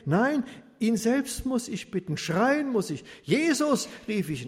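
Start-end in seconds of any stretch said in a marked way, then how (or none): 0.1-3.0 higher, louder resolve; decide firmly, fired up; determined urgency. Acted. Beggar resolving to shout to Jesus himself, determined. 3.2-3.9 high, loud call across a crowd; crying out. Acted. Beggar shouting for Jesus over the crowd, loud cry. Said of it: "schrie ich mit aller Kraft".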